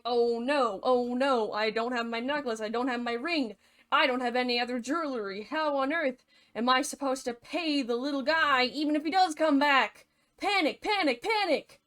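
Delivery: mock panic, rising toward the end; distraught. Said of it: "like, really distraught".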